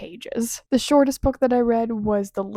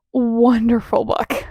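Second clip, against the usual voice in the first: slow, louder wonderful book; excited reveal; 5 dB louder, slower than usual. Real, not acted. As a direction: burst out after the hush. Reveal after whisper.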